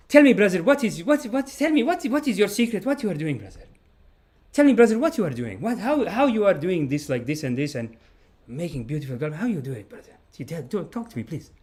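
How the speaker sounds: high, pleading mock voice of a friend begging for secrets; pleading imitated friend. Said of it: "he would be like".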